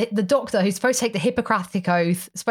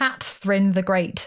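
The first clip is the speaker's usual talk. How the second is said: strong, heavy stress on the word cat. Recounting a story about a cat's name, strong stress on Cat. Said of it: "I don't know if she did put the emphasis on the cat. But I did".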